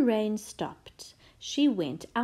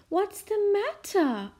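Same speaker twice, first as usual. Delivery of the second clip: concerned mum; 11 semitones higher, 3 dB louder than usual. A narrator's reading. Mum asks crying child.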